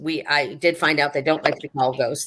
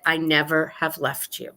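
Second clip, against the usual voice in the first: ghost's gentle reply; 6 dB quieter than usual. Retold or imitated. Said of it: "clear as a bell, he said".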